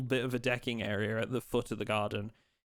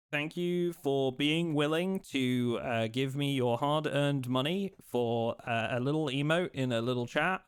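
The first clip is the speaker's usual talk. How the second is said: sarcastic-sounding thanks. Real, not acted. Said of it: "sound like I'm being sarcastic".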